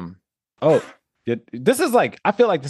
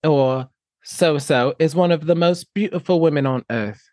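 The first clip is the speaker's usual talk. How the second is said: put-on English accent, measured delivery; playful attempt at an English accent; 3 semitones higher than usual. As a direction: read it out in a mock English accent. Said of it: "do it in an English accent".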